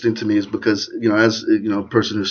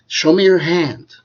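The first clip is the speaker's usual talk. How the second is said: put-on mother teaching baby; 8 semitones higher, 4 dB louder, slower than usual. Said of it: "my mommy and my grandma".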